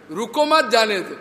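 रुको मत run together as one phrase; misplaced grouping. Shown as a demonstration. Preacher showing the changed meaning, रुको joined to मत. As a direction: join मत onto रुको, then जाने दो. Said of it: "थोड़ा प्रोनाउंसिएशन इधर उधर, वो माने बदल गया".

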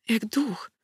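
soft hushed remark; quiet awed aside; whispered. A narrator's reading. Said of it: "wyszeptał".

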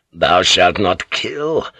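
bitter echo of priest. Acted. Enraged pilot echoes priest in thought.

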